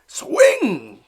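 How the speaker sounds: loud, high yell; hollering. Acted. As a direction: yell it from the stands. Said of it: "hollered Papa".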